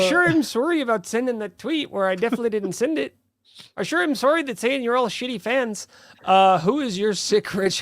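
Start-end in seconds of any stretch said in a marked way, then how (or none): 0.0-3.1 lightly voiced sassy Southern gal, a bit higher; hammed-up fake apology as a sassy Southern woman. Co-host mocking the tweeter's apology as a mild sassy Southern woman. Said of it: "just sassy Southern woman". 3.8-5.9 lightly voiced sassy Southern gal, a bit higher; hammed-up fake apology as a sassy Southern woman. Co-host mocking the tweeter's apology as a mild sassy Southern woman. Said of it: "just sassy Southern woman".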